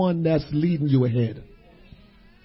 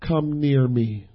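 soft, low and slow; gentle invitation; 6 semitones lower, 7 dB quieter, slower than usual. Acted. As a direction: call them close quietly. Joseph invites his brothers.

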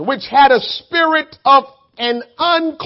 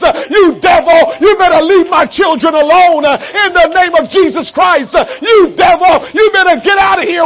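commanding shout. Shown as a demonstration. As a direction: order the devil out forcefully. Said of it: "is say".

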